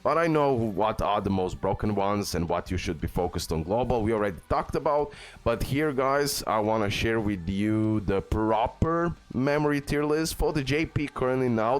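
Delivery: usual speaking voice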